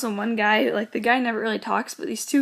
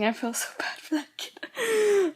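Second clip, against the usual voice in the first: laughing, high and slower; laughing through it; 8 semitones higher, slower than usual. Real, not acted. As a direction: giggle out the guilty line. Laughing about the kid.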